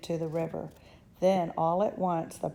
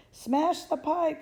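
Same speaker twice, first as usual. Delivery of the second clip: high, slow yell; mother yelling to smash the pipe, high and slow; 10 semitones higher, slower than usual. Acted. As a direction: demand it furiously. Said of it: "yelled Missus Gloop".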